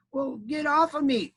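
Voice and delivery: high, slow, drawn-out demand; put-out storybook critter; grumbling armadillo. Acted. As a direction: complain without yelling, in a high animal voice. Squashed armadillo repeating its complaint.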